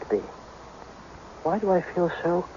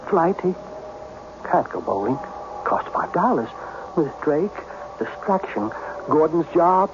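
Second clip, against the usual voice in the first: fragmented inner voices; 2 semitones lower than usual. Acted. Inner voices heard in his head.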